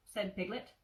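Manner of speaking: put-on gentle storybook narration for a child; cozy read-aloud of a childhood book; bedtime story reading. A narrator's reading. Reads Winnie the Pooh aloud.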